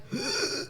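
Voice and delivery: short mock gasp; imitated gasp. Imitating the girl who was standing next in line, quiet gasp. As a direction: quietly imitate a shocked intake of breath. Girl's shocked reaction, imitated.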